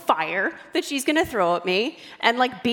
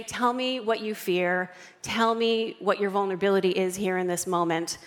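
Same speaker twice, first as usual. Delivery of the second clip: gentle, compassionate; 2 semitones lower than usual. Retold or imitated.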